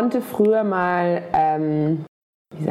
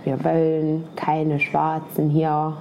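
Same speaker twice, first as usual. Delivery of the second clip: put-on Saxon accent; 5 semitones lower, slower than usual. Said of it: "unsere MitbürgerInnen aus dem Osten".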